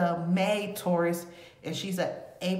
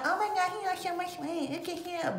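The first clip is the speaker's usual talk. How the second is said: mocking gushing fans; 10 semitones higher, 3 dB quieter than usual. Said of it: "People that talk about him".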